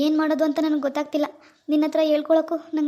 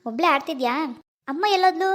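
put-on baby talk. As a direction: coo gently at the baby. Father cooing to baby daughter.

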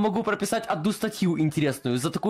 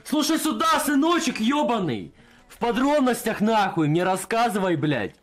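angry interrogation yell; 3 semitones higher than usual. Acted. Cop interrogating the bee suspect in a cell, slow furious yell. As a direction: lean in and roar at him like a brutal interrogator.

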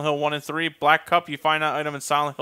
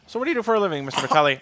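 chatty dentist; much faster than usual. Retold or imitated. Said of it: "they wanna strike up a conversation".

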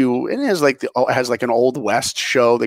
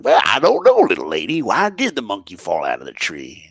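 cowboy emcee; 3 semitones lower than usual. Retold or imitated. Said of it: "And the guy goes".

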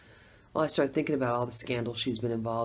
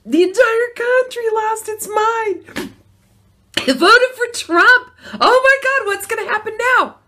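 hammed-up panic; 11 dB louder than usual. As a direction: play the whole country losing its mind. Mock panic over election result.

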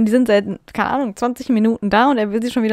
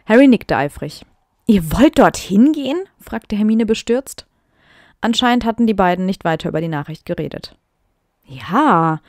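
reading her old story with mock drama; dramatic reading aloud; 4 dB louder than usual. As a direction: perform the text a little theatrically. Reads her teen fanfic aloud.

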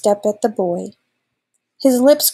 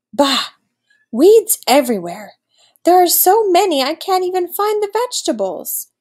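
growled; 8 semitones higher, 4 dB louder than usual. A narrator's reading. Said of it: "the old wolf growled".

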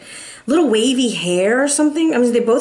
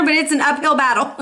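laughing; 3 semitones higher than usual. Real, not acted. Laughs at bad news.

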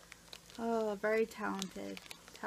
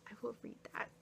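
soft whisper to herself; 9 dB quieter, much faster than usual. Real, not acted. Finding the card from Trish, whispering to herself. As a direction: whisper it privately.

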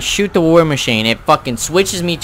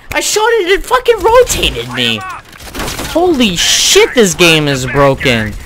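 raging gamer; 10 semitones higher than usual. Real, not acted. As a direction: rage at a broken game.

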